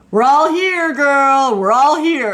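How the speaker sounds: high, loud cheer to a friend; cheering shout. Retold or imitated. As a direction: call it out joyfully. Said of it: "she shouts out".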